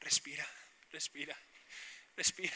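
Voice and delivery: softly coaching someone to breathe; soothing reassurance. Retold or imitated. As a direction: gently talk a patient down, pausing between breaths. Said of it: "y el tío, hombre".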